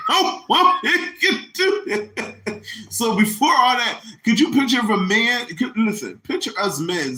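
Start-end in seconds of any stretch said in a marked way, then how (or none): 0.1-2.6 emphatic punchline. Real, not acted. Comic shutting down the idea, high slow emphatic. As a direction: stretch out the punchline.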